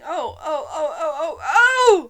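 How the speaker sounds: high, loud shrieking oh's climbing; steam-whistle scream. A narrator's reading. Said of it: "Her screams were exactly like the whistle of a steam engine".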